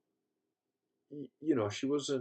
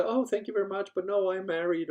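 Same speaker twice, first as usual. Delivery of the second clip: higher imitated female reply, smiling; smiling polite refusal; 8 semitones higher, 4 dB louder than usual. Women turning down his coffee invitation, politely smiling. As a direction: let him down kindly with a smile. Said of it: "most women would just smile and say".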